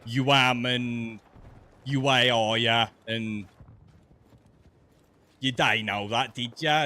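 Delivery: Brummie accent. Shown as a demonstration. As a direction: drag the Brummie vowels out, slow and heavy. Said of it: "I can't even do it when I'm trying to do it intentionally".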